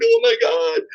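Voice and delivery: a brief, high-pitched inner freakout; childish panic. Retold or imitated. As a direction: yelp it like a frightened little kid. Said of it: "And you're like".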